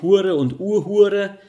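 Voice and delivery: „Hure und Urhure“ langsam, höher und betont; Mundartwörter deutlich vorsprechen; Schweizerdeutsch vorgesprochen. Shown as a demonstration. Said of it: "habe ich ja vorhin schon mal erwähnt". (langsam und betont auf Schweizerdeutsch)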